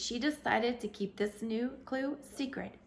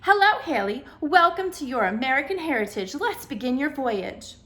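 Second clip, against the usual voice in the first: higher, louder bubbly guide; chirpy hostess inviting her on a tour; perky woman; 5 semitones higher, 8 dB louder than usual. A narrator's reading. Projected woman greeting Haley, perky and bright. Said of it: "turning it into a perky woman".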